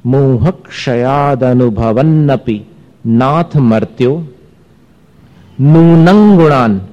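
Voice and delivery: teacher reciting for students to copy; listen carefully recitation. Shown as a demonstration. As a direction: recite slowly and punch नूनं for the class. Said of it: "इसलिए ध्यान से सुनिए".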